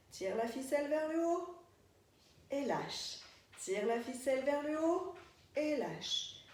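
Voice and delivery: slow, measured movement cues; dance-class cueing. Shown as a demonstration. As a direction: call each move on the beat, leaving gaps. Calls movement cues in rhythm.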